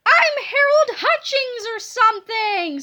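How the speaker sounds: high, loud burst of joy; overjoyed scream. A narrator's reading. Boy hears his own name, screaming with excitement. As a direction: scream it out, thrilled to bits. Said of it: "screamed Harold".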